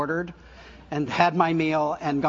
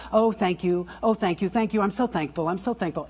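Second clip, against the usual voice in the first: hollow mock thanks; 2 semitones higher than usual. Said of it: "It's not a word. It's not doing that".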